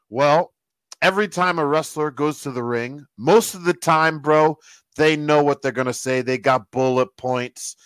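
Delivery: lightly imitated accent of a wrestling writer; Vince Russo. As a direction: explain the catch in a mimicked accent. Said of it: "He's got that accent".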